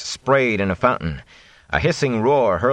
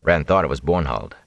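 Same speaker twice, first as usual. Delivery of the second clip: ordinary delivery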